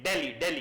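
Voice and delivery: दिल्ली said ɖeli, retroflex ɖ and short l; foreign Dehli. Retold or imitated. Teacher imitating foreigners who lack the dental d, saying ɖeli. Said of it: "तो वो दिल्ली बोलते हैं".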